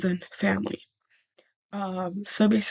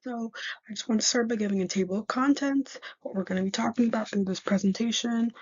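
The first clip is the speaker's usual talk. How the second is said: talking with a retainer in; speech slightly off from a retainer; wearing a retainer; 2 semitones higher than usual. Real, not acted. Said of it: "I'm also wearing my retainer, so don't mind if I sound a little off".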